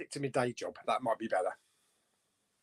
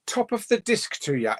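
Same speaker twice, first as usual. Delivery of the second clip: put-on higher-pitched tentative Irish accent; 6 semitones higher than usual. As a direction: read it as a light stage-Irish greeting. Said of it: "like, an Irish accent".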